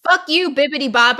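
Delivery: normal talking voice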